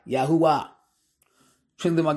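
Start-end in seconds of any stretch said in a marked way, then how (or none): 0.1-0.7 Yahuwah said slowly as ya-hu-wah, each syllable drawn out; slow pronunciation. Shown as a demonstration. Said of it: "Sounds like".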